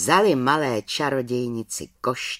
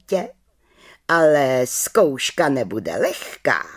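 head witch verdict; 5 semitones higher than usual. Acted.

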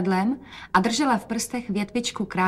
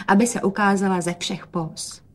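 ordinary delivery, nothing marked

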